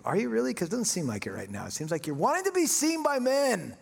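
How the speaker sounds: lightly voiced God, high-pitched doubting challenge; challenging God. Spirit of God questioning the janitor's motive, mock challenge. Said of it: "the Spirit of God spoke to me".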